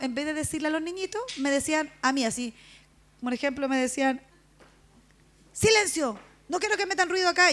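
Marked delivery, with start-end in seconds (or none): 5.5-7.5 stern father hushing. Retold or imitated. Pastor father hushing the children.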